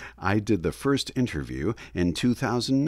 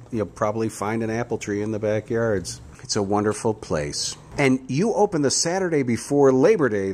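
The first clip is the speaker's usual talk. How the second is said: Grizzly Gus; 2 semitones higher than usual. Acted. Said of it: "as Grizzly Gus, an alter ego of mine".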